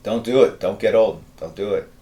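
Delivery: usual speaking voice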